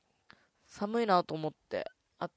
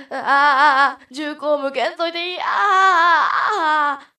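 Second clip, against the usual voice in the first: high, very loud hammed-up panic; panicked screaming; 9 semitones higher, 15 dB louder than usual. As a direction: scream as if a gun is aimed at you. 銃口を向けられた刑事の芝居. (銃口を向けられ大げさに絶叫)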